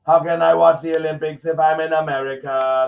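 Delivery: dumb voice. Shown as a demonstration. Streamer rereads the stupid tweet in a mock-dumb voice. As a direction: read it like a clueless poster.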